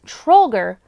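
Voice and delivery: high impish leprechaun voice. Acted. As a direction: voice a teasing little leprechaun. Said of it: "The leprechaun laughed and asked".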